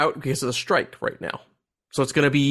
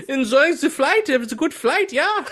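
laughing; 9 semitones higher than usual. Pretend. Playing an Uber driver.

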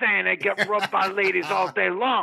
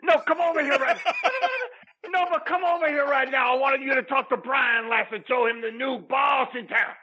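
calling out; 3 semitones higher than usual. Acted. Calls Lillian over, laughing.

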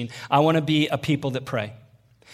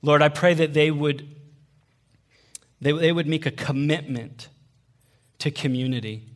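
earnest prayer; 3 semitones lower than usual. Real, not acted. Leads a prayer.

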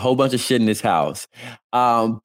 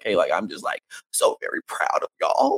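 mock-emotional gush, pitched way up; imitated emotional outburst; 8 semitones higher than usual. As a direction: act out her overcome, high-voiced outpouring. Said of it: "came into an emotional outburst being like".

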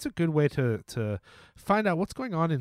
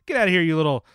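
mock shooing; 6 dB louder than usual. Mock shooing listeners away.

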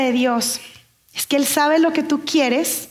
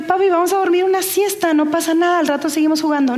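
coaxing mother; 3 semitones higher, faster than usual. Retold or imitated. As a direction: gently talk a small child into it. Mother coaxing her small son to nap.

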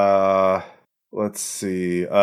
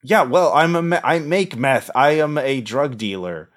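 higher, lightly gravelly, defiant villain; a hint of a smug dealer; 4 semitones higher than usual. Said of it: "a gravelly voice".

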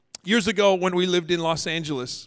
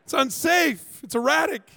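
indignant audience member. Pretend. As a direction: play a scandalised listener objecting. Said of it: "some of you are like".

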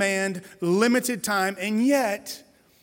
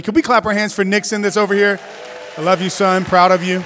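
loud, proud shout-out to his son; calling out proudly; 4 semitones higher, 9 dB louder than usual. Real, not acted. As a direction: cheer him on from the pulpit. Calls out to son in church.

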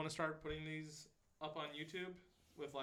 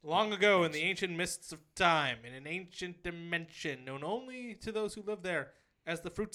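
epic fantasy narrator; slower than usual. Acted. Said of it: "I just wanna give a little history lesson".

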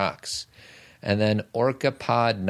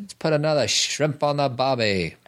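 pitched-up bad Australian accent; 5 semitones higher than usual. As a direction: ham up an Aussie accent. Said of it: "That, that's better".

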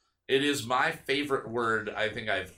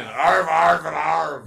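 mock puking; 3 semitones higher, 8 dB louder, much slower than usual.

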